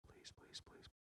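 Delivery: quick breathless whispered begging; whispered pleading. Retold or imitated. Boy whispering to himself while waiting on the phone, pleading. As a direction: whisper please, please, please.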